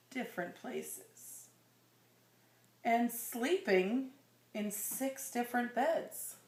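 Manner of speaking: put-on slow, gentle read-aloud to a child; storybook reading voice; story narration. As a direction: read it like a bedtime picture book. Reading picture book to child.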